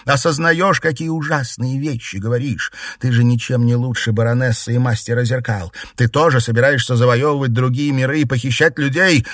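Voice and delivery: high, loud, outraged woman; horrified queen. A narrator's reading. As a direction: accuse him, appalled. Margarita confronts emperor.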